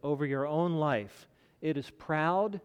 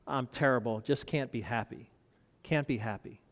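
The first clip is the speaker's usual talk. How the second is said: glum; 4 semitones lower than usual. Retold or imitated. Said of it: "it was how he said it".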